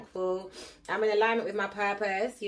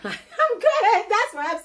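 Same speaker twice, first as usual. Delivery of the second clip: laughing; 13 semitones higher, 8 dB louder, slower than usual. Real, not acted. Laughing brush-off.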